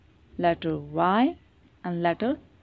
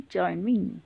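tag; 5 semitones lower, 7 dB quieter than usual. Shown as a demonstration. Inviting children to join in.

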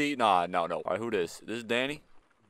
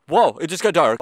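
odd dark; 7 dB louder than usual. Real, not acted. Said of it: "Why'd I say dark like that?".

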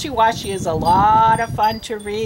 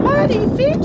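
much higher, louder yell; 4 dB louder than usual. A narrator's reading. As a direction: yell it out in dismay. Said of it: "she cried".

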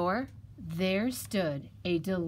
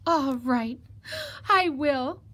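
higher-voiced little piglet giving in; piglet, reluctant; 8 semitones higher, 5 dB louder, slower than usual. Piglet stalls the fox before roasting, meek and high. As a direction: give in haltingly in a high piglet voice.

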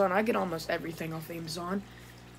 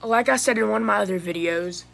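just woke up, groggy husky voice; tired morning voice, still half asleep; sleepy husky good morning; 2 semitones higher, 5 dB louder than usual. Real, not acted. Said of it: "sorry if I sound a little weird, I just woke up".

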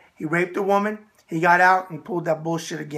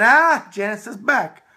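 mock yell; 4 semitones higher, 7 dB louder, slower than usual. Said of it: "I get a yell from the other room".

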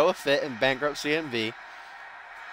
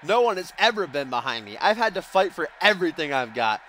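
higher-pitched hammed-up Russian accent heel promo; mock Russian accent; 3 semitones higher than usual. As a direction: boast like a Russian villain wrestler, hammed up. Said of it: "should I do that Russian accent?".

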